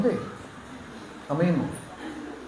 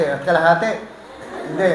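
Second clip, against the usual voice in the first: teasing; 2 semitones higher, 4 dB louder than usual. Real, not acted. Teasing a congregation member.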